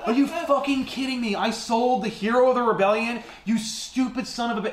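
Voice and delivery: high-pitched mock fury; acted disbelieving outrage. Woman learning she sold the hero, acted disbelieving outrage. Acted furious reaction, retold.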